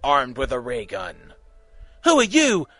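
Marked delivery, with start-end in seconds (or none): 2.0-2.7 sharp, loud demand. A narrator's reading. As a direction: bark the question out. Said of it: "the Doctor demanded".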